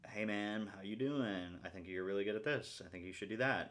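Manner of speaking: lightly voiced encouraging self-talk; a hint of a supportive coach talking to himself; inner coach voice. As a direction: give yourself a friendly little check-in. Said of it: "talk to myself in this voice".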